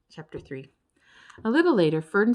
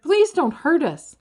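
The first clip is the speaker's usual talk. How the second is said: high, loud frightened begging, slow; pleading; 9 semitones higher, 8 dB louder, slower than usual. A narrator's reading. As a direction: beg them to spare you. Ferd begging the monsters.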